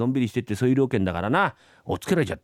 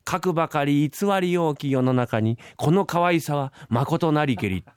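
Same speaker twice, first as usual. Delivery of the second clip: reciting a poem; 2 semitones higher, slower than usual. Acted. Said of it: "昔からよく言うでしょ".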